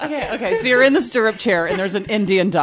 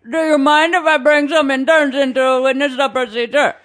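higher, put-on Indian accent; 5 semitones higher than usual. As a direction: lightly mimic an Indian doctor. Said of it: "Indian accent; you're a lot better".

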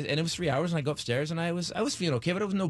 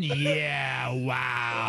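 passive-aggressive remark; 5 semitones lower than usual. Retold or imitated. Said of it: "She just walks by you and goes".

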